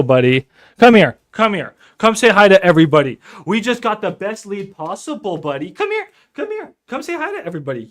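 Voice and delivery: high, loud sing-song pet talk; calling the dog. Real, not acted. Coaxing the cranky dog over.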